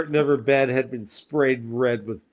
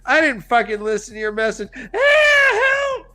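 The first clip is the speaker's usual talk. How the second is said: louder, higher exasperated yell; mock angry yell; 11 semitones higher, 5 dB louder than usual. Heroine yelling at him for ignoring her message, mock angry. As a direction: snap back in a hammed-up panic. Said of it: "She's like".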